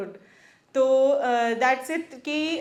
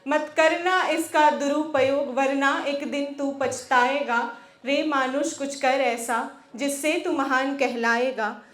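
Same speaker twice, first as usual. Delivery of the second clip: rhythmic, declaimed Hindi verse; poem recitation. Acted. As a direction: recite it as a rousing poem, pausing between lines.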